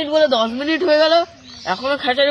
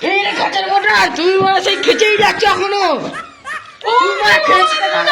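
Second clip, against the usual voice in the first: raised, scolding shout; angry scolding; 5 semitones higher than usual. Acted. Scolding the cameraman. (রেগে চিৎকার করে বকা)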